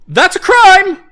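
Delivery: high, loud mocking yell; mocking noble cry. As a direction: jeer it like a snobby noble. First of repeated line.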